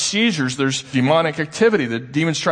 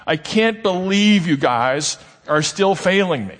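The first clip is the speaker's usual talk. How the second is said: righteous exasperation; 5 semitones higher than usual. Retold or imitated.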